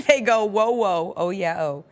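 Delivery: hammed-up lyrics. Host acts out the song's ad-libs for his co-host, mock showman. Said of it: "it goes".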